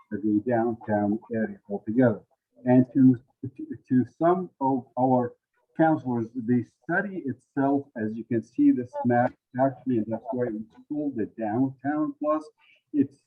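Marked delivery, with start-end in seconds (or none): 2.6-13.1 speaking into a covered microphone; muffled mic. Real, not acted. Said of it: "your microphone's a little muffled".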